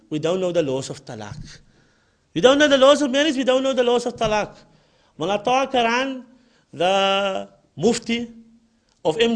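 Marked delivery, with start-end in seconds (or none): 2.3-4.6 repeated louder and higher for emphasis; emphatic repeat. Shown as a demonstration. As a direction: hammer the point home the second time.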